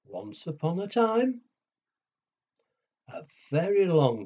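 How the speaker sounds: put-on lively storyteller voice for kids; reading to children. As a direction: build suspense like bedtime story.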